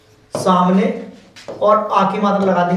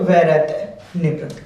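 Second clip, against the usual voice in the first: slow spelling out; 3 semitones lower, much slower than usual. Shown as a demonstration. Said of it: "किस तरीके से, देखिए न".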